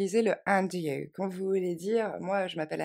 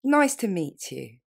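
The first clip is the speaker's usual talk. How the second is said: slow, clear, louder model; slow model phrase; 5 dB louder, slower than usual. Shown as a demonstration. Teacher repeating a greeting slowly. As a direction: say it slowly once more. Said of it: "Encore une fois".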